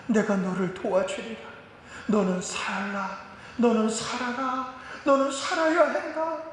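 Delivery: Jesus consoling the hurting believer; tender voice of Jesus. Retold or imitated. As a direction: speak through tears, then urge them to live. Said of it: "눈동자에 눈물이 가득하면서".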